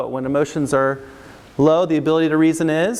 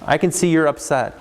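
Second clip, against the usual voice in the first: validating tone; 2 semitones lower than usual. Shown as a demonstration. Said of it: "So validate, to make it simple".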